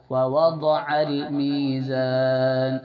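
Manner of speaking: ووضع with a thick, heavy ض, slow and drawn; heavy daad. Shown as a demonstration. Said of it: "ضاد کی آواز موٹی ہونا ہے".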